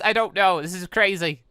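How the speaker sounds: usual speaking voice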